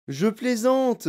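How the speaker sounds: high, drawn-out teasing admission; chuckling to himself. A narrator's reading. Wonka admits his joke, amused. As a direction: draw it out with secret amusement. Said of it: "en riant dans sa barbe".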